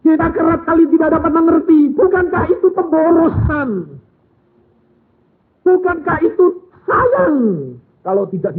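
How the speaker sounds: high, loud and fast rhetorical questions; fiery preaching. Acted. Preacher questions the congregation, loud and high. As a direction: press the crowd with each question.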